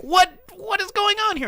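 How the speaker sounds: high, loud disbelief; mock bafflement. Viewer reacts to villain's odd accent, loud baffled outcry. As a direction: exclaim it like a lost viewer.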